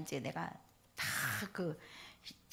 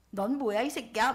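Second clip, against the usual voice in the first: rude snap; 4 dB louder than usual. Retold or imitated. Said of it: "막 이러면서".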